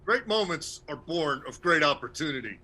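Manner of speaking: rousing coach speech, building; halftime pep speech. Retold or imitated. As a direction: fire up the team like a coach. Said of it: "that's Herb Brooks from the, uh, nineteen eighty Russian game".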